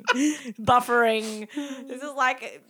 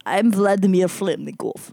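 bad Russian accent; 4 semitones lower, 5 dB louder than usual. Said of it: "this is not very good accent".

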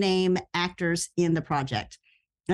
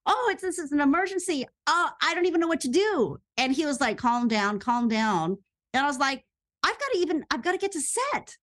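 high, fast, frantic rush of words; retold panic; 7 semitones higher than usual. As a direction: spill it all out in a flustered panic. Panicking to partner about revisions.

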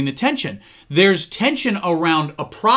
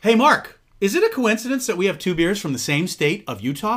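scripted podcast intro; 3 semitones higher than usual. Pretend. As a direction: play the planned setup line for the show. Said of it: "let's go back. Rewind".

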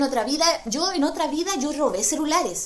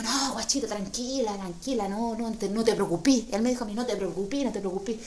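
soothing reassurance; 4 dB quieter than usual. Retold or imitated. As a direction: hush her gently, it's fine. Thief reassuring her.

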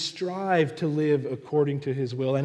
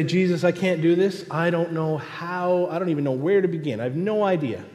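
lightly acted protest, pitch raised at first; overwhelmed believer; 4 semitones higher, 4 dB louder, faster than usual. Believer telling Jesus they can't, mildly overwhelmed protest. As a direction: insist you are at a loss. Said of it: "We might say".

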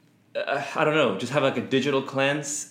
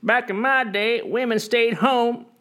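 put-on high, slow whiny old boomer voice; grumbling out of touch boomer; 11 semitones higher, slower than usual. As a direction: grumble like an old boomer about kids today. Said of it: "your impression of a baby boomer".

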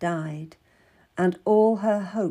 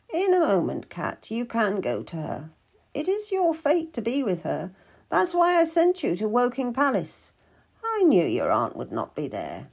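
lightly voiced knowing midwife; 3 semitones higher than usual. Midwife tells Cat her fate is with Queen, portentous. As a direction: pronounce fate with a portentous fall at the end. Story figure speaks of fate.

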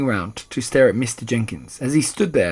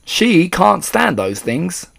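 higher, slow, loud protest; dismayed yell; 6 semitones higher, 6 dB louder, slower than usual. A narrator's reading. Father explaining his wife's horror, yelling in dismay. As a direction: stretch it out in dismay. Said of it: "yelled Mister Jenkins".

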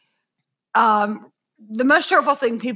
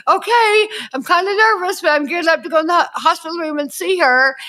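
mock nervous; 5 semitones higher, faster than usual. Voicing nervous visitors before the visit.

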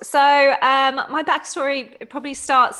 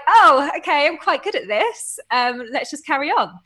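higher, pleased little surprise; mock surprise; 5 semitones higher, 4 dB louder than usual. Recalling winning the world title, playful surprise. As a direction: act caught off guard by winning. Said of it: "I was like".

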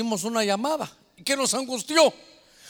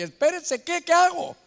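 panicked; 6 semitones higher, 4 dB louder than usual. Retold or imitated. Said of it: "Uno cuelga y".

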